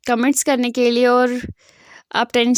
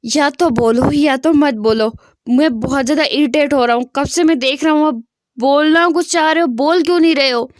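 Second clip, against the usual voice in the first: irritated shout; 3 dB louder than usual. Acted. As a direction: snap at him, out of patience. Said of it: "जान जो है वो चिल्ला के बोलता है".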